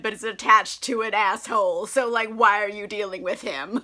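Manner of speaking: loud, exasperated scolding of a lovestruck sister. Retold or imitated. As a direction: rant at her like a fed-up big sister. Sister scolds Connie over boyfriend.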